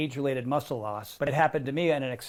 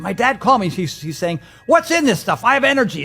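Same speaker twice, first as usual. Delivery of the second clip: high, loud amazed dad; excited quote; 7 semitones higher, 10 dB louder than usual. Retold or imitated. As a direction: quote him bursting with energy. Quoting a thrilled dad.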